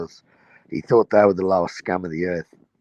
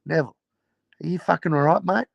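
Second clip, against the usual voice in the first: Chopper; 6 semitones higher than usual. Retold or imitated. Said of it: "Chopper walks up to him and goes".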